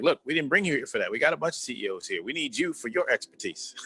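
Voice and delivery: board members' pushback. Retold or imitated. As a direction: lightly voice colleagues correcting a newcomer. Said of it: "They're like".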